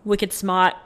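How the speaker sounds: put-on lightly done Boston accent. Host reading out Boston shirt slogan, light Boston accent. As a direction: drop the R in a Bostonian way. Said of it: "when I went to Boston".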